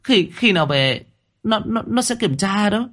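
frightened stammer. A narrator's reading. Startled cousin stammering her defence to the landlady. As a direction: stumble over every word in fright. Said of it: "Nhụy Nhụy giật mình".

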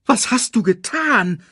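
high, accusing outcry; harsh rebuke. A narrator's reading. Scar blames Simba for the death, harshly. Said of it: "herrschte Scar ihn an".

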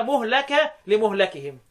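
مهلك as muhlaka, لمهلكهم as li-muhlakihim; majority reading, damma. Shown as a demonstration. Teacher summarising the other readers, damma on مهلك. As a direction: put u after the m in مهلك. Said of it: "وبقية القراء كلهم قراءة".

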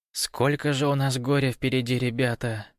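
normal talking voice

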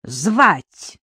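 put-on high-pitched child's question; lightly voiced curious child; child suddenly asking. A narrator's reading. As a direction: pipe up suddenly as a little girl. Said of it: "вдруг басом осведомилась Шура".

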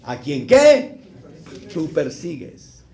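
loud, high, drawn-out divine proclamation; thundering preacher quoting Christ; voice of Jesus. Acted. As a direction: boom it out slowly as the Lord from heaven. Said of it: "cuando el Señor le dice".

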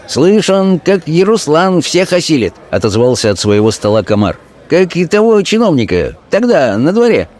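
high taunting voice; a small man egging on the fight; komar jeering. Acted. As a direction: taunt from the next table, high.

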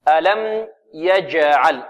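slow, held tajweed recitation; careful teaching recitation; model recitation. Shown as a demonstration. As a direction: recite ألم يجعل deliberately, bouncing the ج. Teacher recites verse words as model.

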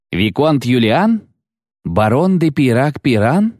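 slow, rising high questions; astonished recognition. A narrator's reading. Old acquaintances recognising each other, astonished questions. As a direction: draw out each name in surprise.

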